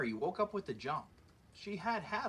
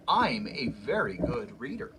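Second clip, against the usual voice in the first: louder, lightly voiced wolf boast; boastful wolf; 4 semitones lower, 7 dB louder than usual. Wolf bragging to the giant, lightly voiced proud boast. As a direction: brag a little, like a proud wolf.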